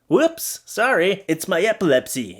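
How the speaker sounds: high-pitched mock-innocent whoops, easing down; fake innocent apology. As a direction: play the accidental culprit. Acts out cutting the cord.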